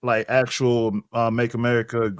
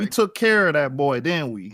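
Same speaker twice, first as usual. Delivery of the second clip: bad Southern accent; 2 semitones higher than usual. Brother playing Bubba on the host's request, bad Southern accent. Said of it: "Your accents are terrible".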